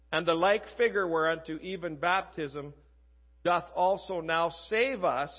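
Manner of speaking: measured reading aloud, pausing between phrases; scripture reading. Real, not acted. Preacher reads First Peter to the congregation, measured scripture reading. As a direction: read the verse out deliberately, phrase by phrase.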